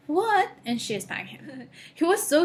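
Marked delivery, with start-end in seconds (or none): 0.1-0.5 high, loud disbelieving what; shocked snake. Acted. Snake to the nosy elephant, a high startled outburst. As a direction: snake snapping back in sudden disbelief.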